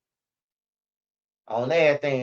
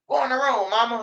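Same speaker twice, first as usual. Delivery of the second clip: bratty friend; 6 semitones higher than usual. Retold or imitated. Friend's order to mom quoted.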